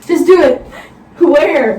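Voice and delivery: loud, high, impatient push. Real, not acted. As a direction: hurry him up, exasperated. Impatient with brother.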